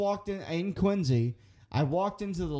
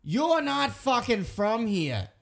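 put-on Boston accent; 4 semitones higher than usual. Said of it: "I hear this guy going".

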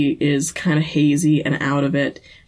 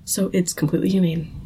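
matter-of-fact Gordon; faster than usual. Retold or imitated. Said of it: "and he's like".

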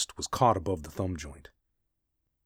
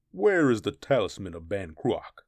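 menacing barbarian; 2 semitones higher, 4 dB louder than usual. Acted. Barbarian interrogating captive.

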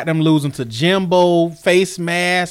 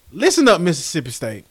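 mock scolding. Mock scolding of Mississippi State.

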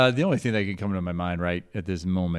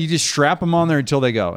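higher and louder disbelieving echo; incredulous; 5 semitones higher, 6 dB louder than usual. Retold or imitated. Grandson echoing grandfather's advice, stunned and incredulous. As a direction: repeat it back in shocked disbelief. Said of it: "And I'm saying".

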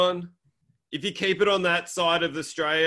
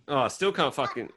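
usual speaking voice

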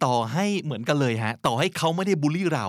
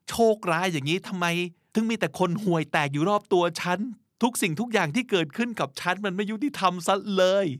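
self-pitying whiner; 6 semitones higher, faster than usual. Pretend.

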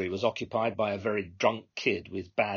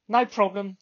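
exasperated radio dispatcher; 11 semitones higher, 6 dB louder than usual. Acted. Controller to all cars, exasperated radio call. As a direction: plead with the drivers, fed up.

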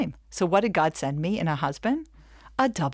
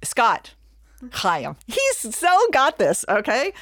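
high, loud and slow teasing; playful tease; 6 semitones higher, 5 dB louder, much slower than usual. Real, not acted. Teasing the audience man who answered, high, loud and slow. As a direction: stretch it out, teasing him.

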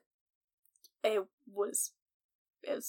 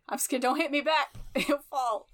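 playful teasing laugh; 5 semitones higher than usual. Acted. Playful teasing after shoulder nudge.

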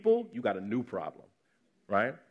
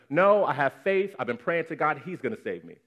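insistent refusal; 2 semitones higher, 3 dB louder than usual. Acted. Drowning man refuses help, exasperated.

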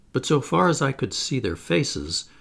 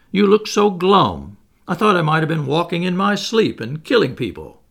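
laughing pleasantly; 4 semitones higher, 6 dB louder than usual. A narrator's reading. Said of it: "he began to laugh very pleasantly".

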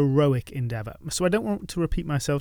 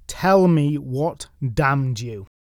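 commanding; much slower than usual. Acted. Priest compelling a confession.

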